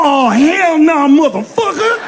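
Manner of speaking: slow, drawn-out disapproving "hell nah"; offended black audience. Retold or imitated. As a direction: pull back in mock outrage, slowly. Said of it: "But then I go too far".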